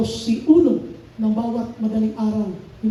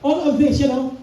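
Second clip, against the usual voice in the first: slow, deliberate quoting; slow scripture reading; 2 semitones higher, slower than usual. Shown as a demonstration. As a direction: draw each phrase out. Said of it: "Sabi niya". (mabagal na pagbasa ng Bibliya)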